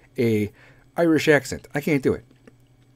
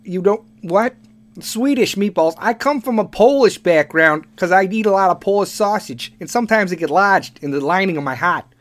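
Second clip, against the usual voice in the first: loud, higher-pitched Chicago guy; Chicago accent; 7 semitones higher, 5 dB louder than usual. Acted. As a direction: ham up an over-the-top Chicago accent. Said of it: "Like Chicago".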